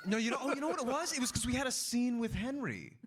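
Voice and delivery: very high, quick Cornish pirate; high-pitched put-on pirate voice. Shown as a demonstration. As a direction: explain it all as a comic pirate. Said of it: "It was a bit like this".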